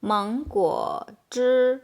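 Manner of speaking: manguo zhi said as Mandarin mángguǒ zhī; Chinese pronunciation. Shown as a demonstration. Teacher modelling mango juice in Mandarin, clear and careful. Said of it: "mango juice we say manguo zhi".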